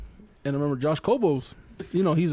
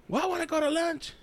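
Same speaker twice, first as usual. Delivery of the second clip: high-pitched mock indignation; imitated huffy comeback; mad teacher; 11 semitones higher, 4 dB quieter than usual. Teacher snapping back at student, mock mad. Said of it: "she was all mad".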